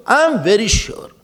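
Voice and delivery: firm, self-assured reply with a push on "am"; very confident. Acted. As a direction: answer without a trace of doubt. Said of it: "speaks with lot of confidence".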